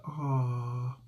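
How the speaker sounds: room's sympathetic aw. Retold or imitated. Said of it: "the whole room was like".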